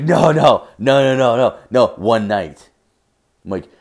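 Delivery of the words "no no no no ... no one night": insistent no. Retold or imitated. Buddy insisting one night.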